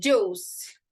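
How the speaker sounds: "juice" as one drawn "joos", falling; silent I in juice. Shown as a demonstration. Teacher modelling "juice" for repetition, I silent. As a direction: model "juice" clearly without any I sound. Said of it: "Repeat with me".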